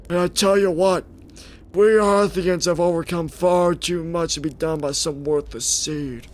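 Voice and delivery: a hint of a grave old man. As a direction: warn the youngster like an elder. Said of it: "doing that old man voice".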